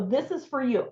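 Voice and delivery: too aggressive. Shown as a demonstration. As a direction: push it on them a bit too firmly. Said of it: "Maybe not quite that aggressively".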